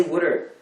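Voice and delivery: "wooder" with an oo in the first syllable; Delaware County pronunciation. Shown as a demonstration. American showing off a home accent, "wooder" with an oo. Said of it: "It's, I say wooder".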